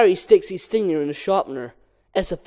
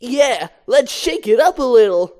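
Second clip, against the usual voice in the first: Barry voiced; 5 semitones higher, 5 dB louder than usual. Barry in the mirror.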